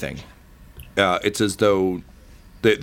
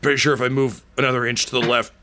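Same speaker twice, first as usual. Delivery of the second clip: wry dying man; 4 semitones higher, faster than usual. Acted. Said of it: "He's like".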